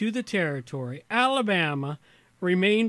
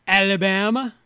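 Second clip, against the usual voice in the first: louder attempt at a Southern movie character's accent; Forrest Gump; 2 semitones higher, 7 dB louder than usual. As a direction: try a Southern accent, ending on a rise. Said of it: "Forrest Gump".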